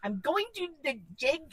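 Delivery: half-hearted try at an Irish lilt; badly faked Irish; tentative, unconvincing Irish accent; failed Irish accent. Shown as a demonstration. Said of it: "I can't do that".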